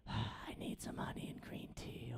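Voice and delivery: whispered with the voice gone; voiceless whisper. Retold or imitated. Comic with a lost voice asking for tea, whispered. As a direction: rasp it out with no voice. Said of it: "lost my voice".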